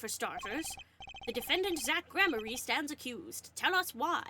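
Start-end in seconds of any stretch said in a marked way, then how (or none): 1.3-4.2 raised, formal judge voice. Acted. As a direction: announce it like a courtroom judge. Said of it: "I did his voice for".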